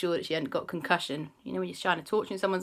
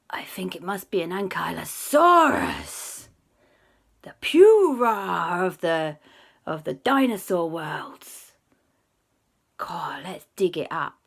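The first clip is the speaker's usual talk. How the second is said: excited whisper; 8 dB louder, much slower than usual. Acted. Excited whispered dinosaur guess.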